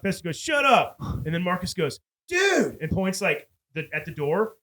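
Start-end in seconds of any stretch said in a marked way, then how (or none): 0.4-0.9 high, quick retold "shut up" outburst; mock irritated snap. Acting Fester snapping at Hammer. 2.3-2.8 high-pitched imitated call to friends; mock alert call. Acting Marcus alerting his friends.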